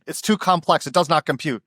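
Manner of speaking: lightly voiced robot rejecting its input; a hint of a baffled machine voice; mock computer. Computer faced with a mixed neighborhood, lightly robotic.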